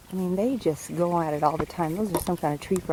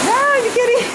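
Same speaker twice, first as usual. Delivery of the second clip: laughing; 4 dB louder, faster than usual. Real, not acted. Laughing in the rain.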